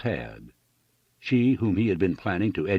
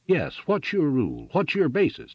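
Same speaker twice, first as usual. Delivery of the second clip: high-pitched, insistent challenge; demanding; 8 semitones higher than usual. A narrator's reading. Farmer turning on railroad man, demanding. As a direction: press hard for an answer. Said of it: "demanded Dyke".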